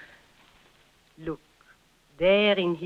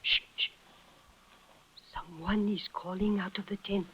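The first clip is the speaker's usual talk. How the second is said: much softer hush; 9 dB quieter than usual. Acted. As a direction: hush him, someone's coming. Man stirring in the tent.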